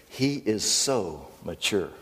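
slow, drawn-out onlooker's praise; mock admiration. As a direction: stretch it out in feigned awe. Acted onlookers admire the kid's maturity.

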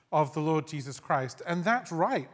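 normal talking voice

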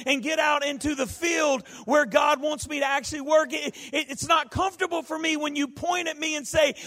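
half-shouted, mocking a churchgoer quoting the preacher; mock shouted complaint. Voicing a complaining churchgoer's challenge.

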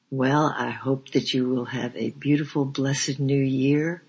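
tender farewell. Real, not acted. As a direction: bless the listeners warmly. Fond farewell to listeners.

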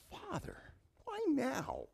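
pleading upward to the Father; pained cry to the father. Acted. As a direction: cry out like a forsaken son. Preacher voicing Jesus' cry.

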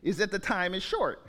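measured, solemn Bible reading; scripture reading. Acted. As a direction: pulpit reading of an epistle. Reads scripture passage aloud.

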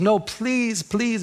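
high-pitched pleading, lightly acted; imitated tearful plea. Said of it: "And she's crying".

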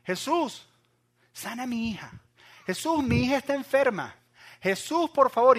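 high, loud desperate calling out; pleading cry. Retold or imitated. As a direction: cry out to Jesus, begging for your daughter. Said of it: "Empezó a gritarle". (súplica a gritos, aguda y fuerte)

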